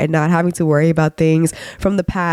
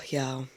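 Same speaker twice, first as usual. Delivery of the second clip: stressed sigh; 4 semitones lower, 16 dB quieter than usual. Real, not acted. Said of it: "I'm so stressed right now".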